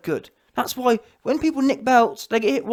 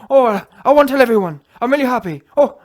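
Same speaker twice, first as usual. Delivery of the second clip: mock happy gush; 3 semitones higher, 8 dB louder than usual. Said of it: "And now he's saying".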